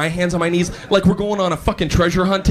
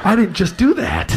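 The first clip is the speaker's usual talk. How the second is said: higher, softened dismay; instant regret; 4 semitones higher than usual. Retold or imitated. Employee realising he just cursed his boss, dismayed. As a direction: let it out as an oops, pitched up.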